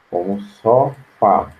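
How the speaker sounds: "sofá" stressed on the last syllable, slow; slow demo of "sofá" with final stress. Shown as a demonstration. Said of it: "Sofá, a gente acentua".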